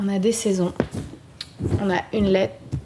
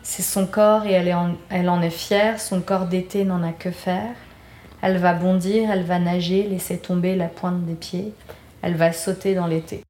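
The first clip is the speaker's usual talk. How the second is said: measured verse reading, phrase by phrase; poem read with lilting line ends; reading lyrics aloud. Real, not acted. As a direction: recite it in short, even lines. Reads second verse aloud.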